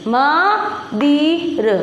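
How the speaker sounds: "मदिर" broken into slow, separate sounds म, दि, र; syllable-by-syllable demo. Shown as a demonstration. Teacher showing pupils the faulty word, "मदिर" drawn out syllable by syllable. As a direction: stretch out "मदिर" sound by sound, no nasal. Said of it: "क्या पढ़ रहे हैं".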